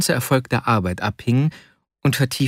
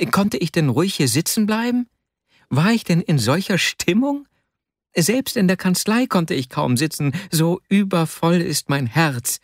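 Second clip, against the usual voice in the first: higher-pitched, pleading rhetorical questions; agitated self-defence; 6 semitones higher than usual. Acted. Vasja excusing his unfinished copying to Akasha, mildly agitated. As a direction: plead that you were too overwhelmed. Excited friend justifying his idleness.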